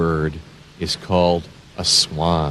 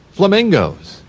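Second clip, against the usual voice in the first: put-on high, loud Flamingos called out to kids; cheerful name call; excited naming; 11 semitones higher, 3 dB louder than usual. Shown as a demonstration. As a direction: announce Flamingos like a treat. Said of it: "naming the animal for kids".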